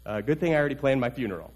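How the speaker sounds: wry aside. Acted. Nathan grimly joking about his mission, fast deadpan. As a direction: toss it off dryly, under the breath.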